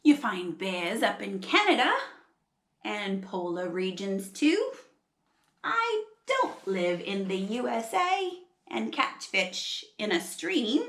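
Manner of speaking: lightly Australian koala voice; attempted Australian storybook voice; Australian accent. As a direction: put on an Aussie accent for the koala. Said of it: "trying really hard to do an Australian accent".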